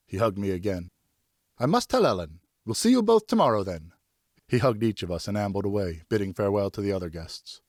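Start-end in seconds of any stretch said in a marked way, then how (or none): 1.6-3.9 higher, louder, merry tipsy friend; tipsy friend Richard. Acted. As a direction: greet him like a jolly half-drunk pal. Narrator voices tipsy Richard.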